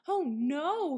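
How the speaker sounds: high, loud worried "oh no"; young rabbit's startled cry; dismayed cry. A narrator's reading. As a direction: blurt it out in alarm. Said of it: "he cried".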